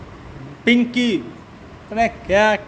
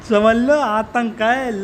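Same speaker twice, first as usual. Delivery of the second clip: laughing; much slower than usual. Real, not acted. Laughing at own joke.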